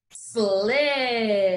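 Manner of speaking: Sled drawn out slowly. Shown as a demonstration. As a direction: stretch Sled for the class. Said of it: "say it slowly".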